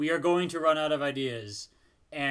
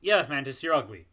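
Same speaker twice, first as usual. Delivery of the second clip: Drax quote; 6 dB louder than usual. Retold or imitated. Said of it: "where he says".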